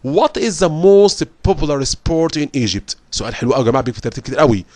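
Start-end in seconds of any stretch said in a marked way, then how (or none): 0.1-3.0 slow, careful question read; slow English reading voice. Acted. Teacher reading the exam question to students. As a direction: read it slowly so they follow.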